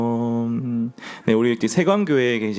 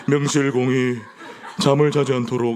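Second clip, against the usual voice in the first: elder impression; 3 semitones higher than usual. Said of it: "김미경 장로님 성대모사도 하면서".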